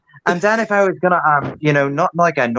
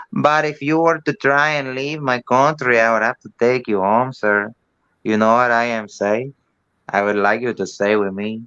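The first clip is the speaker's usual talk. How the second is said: lower, heavy North Side Dublin accent; 3 semitones lower than usual. Shown as a demonstration. Showing off his Dublin accent to the room. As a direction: Dublin tough guy, lowered. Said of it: "North Sider Dublin".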